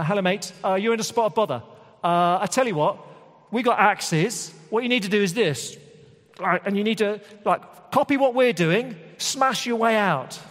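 high, loud, matey instructions; chummy rescuer. Acted. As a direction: coach a trapped man like a breezy fireman. Mock firefighters coach trapped man.

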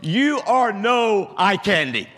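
high, loud and slow, laughing through the words; laughing loudly. Retold or imitated. Airline agent teases the pastor, laughing loudly. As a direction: roar it out while laughing hard. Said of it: "the laughter reverberated throughout Terminal D when he said".

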